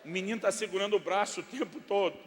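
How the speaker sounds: ordinary delivery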